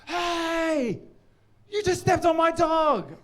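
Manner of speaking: high, drawn-out mock outrage; hammed-up high-pitched accusation; imitating angry stranger. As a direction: play an affronted dog owner confronting someone. Acting out angry dog owner's outburst.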